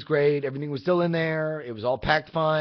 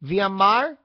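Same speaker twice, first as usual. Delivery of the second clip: put-on higher, louder Hispanic accent, rising at the end; her Hispanic-accented voice; 4 semitones higher, 4 dB louder than usual. Imitating the phone woman naming the driver, Hispanic accent. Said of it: "sounds to me like she's saying".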